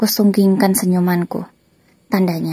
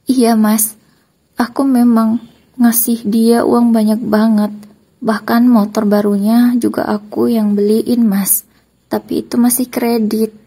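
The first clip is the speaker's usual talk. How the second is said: trembling voice; 4 semitones higher, 4 dB louder, slower than usual. Acted. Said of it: "namun suaranya bergetar".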